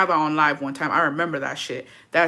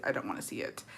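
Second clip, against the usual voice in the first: low muttered repeat; 13 semitones lower, 15 dB quieter than usual. Pretend. Repeats phrase much lower.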